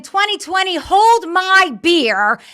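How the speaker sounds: drawn-out swaggering dare, beer held high; mock challenge from the year 2020; cocky 2020 boast.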